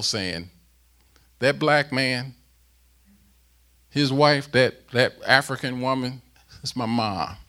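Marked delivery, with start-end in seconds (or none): 1.4-7.4 loud, high proclaiming of Paul's words; booming apostle's greeting; preaching Paul's greeting. Retold or imitated. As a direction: call it out like Paul himself greeting.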